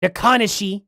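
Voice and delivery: "Nakanishi" as nuh-KAH-nih-shee; Trump-style mispronunciation. Shown as a demonstration. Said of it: "closer to how Trump would say it".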